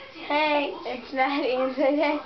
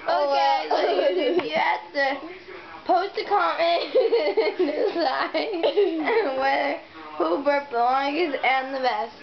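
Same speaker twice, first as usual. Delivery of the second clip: laughing; 2 semitones higher than usual. Real, not acted. Laughing during sign-off.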